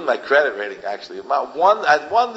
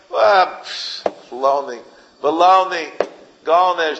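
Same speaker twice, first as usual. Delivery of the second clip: dismissive scoff, a bit raised; scornful dismissive snort and jeer; 3 semitones higher, slower than usual. Real, not acted. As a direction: wave it off with contempt. Scoffing at hypocrite.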